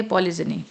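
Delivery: polygyny with a soft j/z, "poli-jini"; shown pronunciation. Shown as a demonstration. Teacher shows learners how to read it, shown pronunciation. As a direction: say polygyny with a light JI in the middle. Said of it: "इसे पढ़ेंगे".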